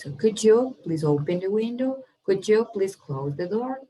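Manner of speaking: could you as "couldja" throughout; blended could you. Shown as a demonstration. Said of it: "You have to repeat and practice".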